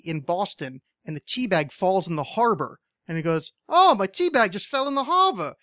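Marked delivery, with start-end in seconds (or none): 3.7-5.5 high, loud lizard impression with an accent; accented cartoon lizard. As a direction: cry out as a dismayed little ad mascot. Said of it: "cute little lizard with the accent".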